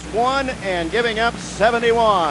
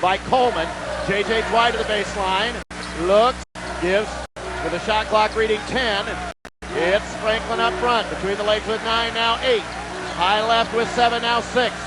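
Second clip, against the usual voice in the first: play-by-play. Acted. Live play-by-play call.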